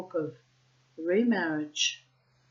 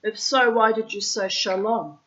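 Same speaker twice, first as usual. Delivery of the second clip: put-on Russian accent; 2 semitones higher, 4 dB louder than usual. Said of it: "I'm putting in the Russian accent".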